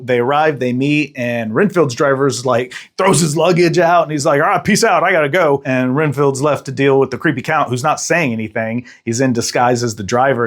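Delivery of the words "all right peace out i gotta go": breezy high-pitched brush-off; casual high voice. Retold or imitated. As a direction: toss it off, higher and bouncy. Driver quoted dumping luggage.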